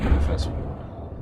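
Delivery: slow, breathy strain through heavy G; under heavy g force. Pretend. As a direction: push the words out under crushing Gs. Peak Gs during chute braking.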